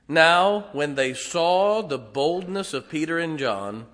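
slow, deliberate scripture reading with long drawn words. Acted. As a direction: read Acts slowly, savouring each phrase. Reads scripture aloud.

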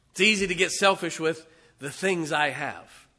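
preacher hammering his point to the church; preaching build. Acted. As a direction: drive the repeat home to the congregation.

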